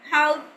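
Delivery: "help" drawn out with a twist of the tongue; English-style pronunciation. Shown as a demonstration. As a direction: demonstrate "help" slowly in native English style. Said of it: "जैसे अभी हमने बात की".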